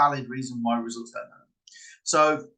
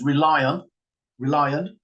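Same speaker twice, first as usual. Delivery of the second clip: "rely on" punched a touch louder, lifting at the end; emphasized words; 5 dB louder than usual. Shown as a demonstration. Trickster planting lion in a listener's mind, emphasized. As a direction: lean hard on "rely on". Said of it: "you kind of emphasize certain words".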